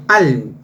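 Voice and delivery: "al" set apart as the strong syllable; stressed syllable. Shown as a demonstration. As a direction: lean on "al" and hold it. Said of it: "la fuerza de voz está".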